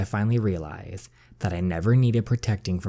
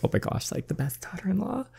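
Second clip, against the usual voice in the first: mock excited mom; 10 semitones higher, 6 dB quieter than usual. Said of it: "the mom is like".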